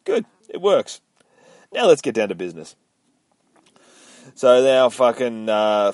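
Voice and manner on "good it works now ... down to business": old farmer, pleased, voiced lightly; old man voice. Old man voiced in comic retelling.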